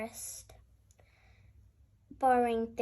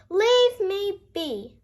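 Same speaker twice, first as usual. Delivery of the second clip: higher, louder and slow, grumpy snap; snapped; 7 semitones higher, 7 dB louder, slower than usual. A narrator's reading. Grumpy bear turning the hare away, loud snap. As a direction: bite the words off, wanting to be left alone. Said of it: "snapped the bear".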